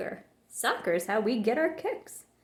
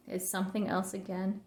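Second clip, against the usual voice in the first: soft, tired finish; a tired grandmother, softly; weary sigh; 2 semitones lower, 8 dB quieter than usual. A narrator's reading. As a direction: let it fade out quietly. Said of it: "she added with a sigh".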